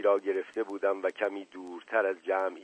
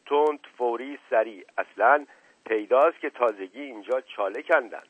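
raised, forceful orders, easing toward the end; commanding shout; 3 semitones higher, 4 dB louder than usual. Acted. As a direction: overrule him with barked orders. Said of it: "فریاد زد". (فریاد آمرانه و تند)

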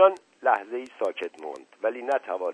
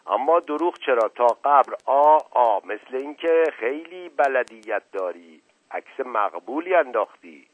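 folksy servant voice; 4 semitones higher, 7 dB louder than usual. Acted. Mash Qasem voiced, flattering.

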